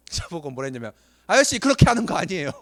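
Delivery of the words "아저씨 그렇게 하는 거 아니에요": higher, louder imitation of an irritated youngster; a young coworker's retold irritated telling-off; mock angry scold. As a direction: snap at the older guy, imitating. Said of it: "라고 저한테 화를 냈어요".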